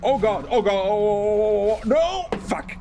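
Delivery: high, loud panicked yelps; mock panic. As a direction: ham up being overrun in a game. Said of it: "I would say in German, like".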